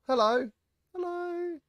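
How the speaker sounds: a playful put-on British greeting; hammed-up British hello; British accent. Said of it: "That's my British accent".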